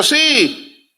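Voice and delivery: high-pitched retold yes; trusting child's high yes; child's eager reply. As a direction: imitate an eager boy. Acted child's eager answer.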